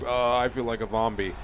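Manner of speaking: ordinary talk, nothing marked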